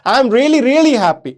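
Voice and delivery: mildly excited demo, livelier pitch. Shown as a demonstration. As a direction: act excited, lifting the repeated "really". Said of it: "बोलूंगा इसको बहुत ही ज्यादा excited होके". (उत्साह से भरी आवाज़)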